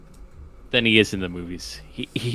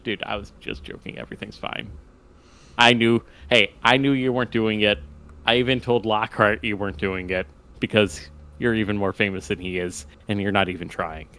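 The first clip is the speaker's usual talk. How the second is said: lightly voiced reassuring Hagrid. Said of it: "and is like".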